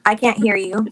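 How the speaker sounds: loud, insistent, can't hear; calling out. Real, not acted. Calling out over bad connection.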